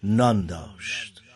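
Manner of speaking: measured, solemn verse reading with long pauses; poem recitation. Acted. Host reciting a mournful poem to listeners, solemn verse delivery.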